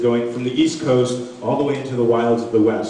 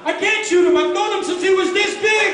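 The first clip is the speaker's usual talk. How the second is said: hasidic guy punchline. Retold or imitated. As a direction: belt the punchline in the father's voice.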